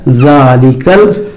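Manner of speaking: ज़ालिकल said slowly with a questioning rise; ज़ालिकल slow, rising at the end; slow answer. Shown as a demonstration. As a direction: stretch ज़ालिकल out, ending up as if asking the class. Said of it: "क्या कहलाता है?".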